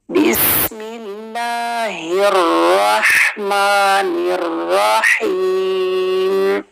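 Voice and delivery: drawn-out tajweed Basmala with heavy ra; slow Quran recitation. Shown as a demonstration. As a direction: recite slowly and melodically. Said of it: "र को heavy करना है". (धीमी तिलावत, भारी र के साथ)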